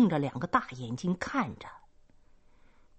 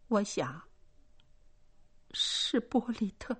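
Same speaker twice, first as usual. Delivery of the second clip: stammering; 4 semitones higher, 5 dB quieter than usual. A narrator's reading. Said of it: "他结结巴巴地说".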